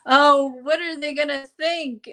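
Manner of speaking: hammed-up fretting, breaking into laughter; laughing mock worry. Laughing at own retold worries.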